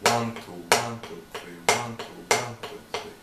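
each "one" stronger, "two, three" dropping away; stress on one. Shown as a demonstration. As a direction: count in rhythm and hit every "one". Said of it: "Accenting one".

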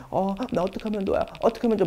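mock fretful, fast and soft; worried friend. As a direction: imitate a panicking friend, hushed. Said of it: "친구가 되게 막".

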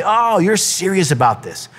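high drawn "oh" of realization; surprised second take. Acted. Coach answering a committed wrestler, surprised second take. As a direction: react as if suddenly taking them seriously. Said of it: "one of those second takes".

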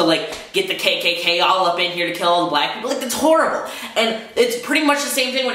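real anger pushing the voice up; mad rant. Real, not acted. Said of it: "It makes me so mad".

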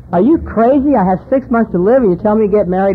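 are you kidding me, shouted high; outraged. Retold or imitated. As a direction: blurt it out in disbelief. Drunk told to marry, outraged.

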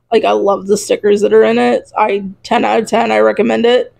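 talking through a sore throat; slightly strained sore-throat voice. Real, not acted. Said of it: "I'm getting a sore throat".

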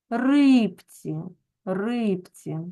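"Рибці" with stressed И and distinct Б; clear Б. Shown as a demonstration. Teacher shows pupils stress and consonant, clear Б. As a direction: draw out И, keep Б clear in "Рибці". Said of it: "ми вимовляємо чітко".

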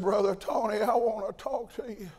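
a hint of the old man's hushed voice; Brother Edgar's way of talking. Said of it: "he talked like this".

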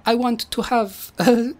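hesitant stagey Italian; stereotypical Italian accent. Acted. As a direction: draw it out with a light Italian accent. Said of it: "stereotypical Italian accents".

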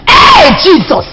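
high, loud, slow hey Jesus; shocked exclamation. Acted. Gossiping to the housemaid about Ogili, a high shocked cry. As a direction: gasp it out big.

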